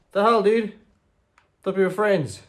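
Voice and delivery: a betrayed player screaming at a traitor; outraged shout. Real, not acted.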